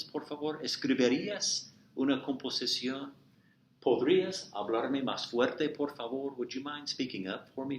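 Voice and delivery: courteous teacher modeling a polite request. Shown as a demonstration. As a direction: ask nicely, like a favor. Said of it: "So to make polite requests".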